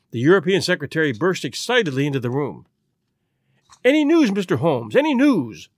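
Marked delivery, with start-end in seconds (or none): 3.8-4.9 urgent, eager question to Holmes; anxious secretary pressing Holmes for news, eagerly; eager cry. Acted. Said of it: "he cried". 4.9-5.7 higher, pressing repeat of the question; anxious secretary repeating his plea to Holmes, higher and more urgent; more urgent cry. Acted. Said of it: "he cried".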